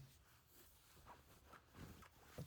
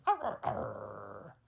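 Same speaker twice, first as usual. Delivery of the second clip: slow, louder growling arr; creature growl; 4 semitones lower, 6 dB louder, slower than usual. Acted. Chipmunk creature growling at the girl, slow growl. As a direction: growl like a beast. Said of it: "And he goes".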